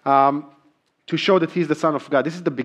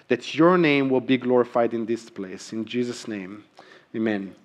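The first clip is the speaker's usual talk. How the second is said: pastor's prayer. Acted. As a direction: pray over the church, then soften into the amen. Pastor leads congregational prayer.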